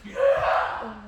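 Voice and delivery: airy, breathy "Yeah!"; excited whisper-cheer. Retold or imitated. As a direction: cheer under your breath. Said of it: "I'm standing there like".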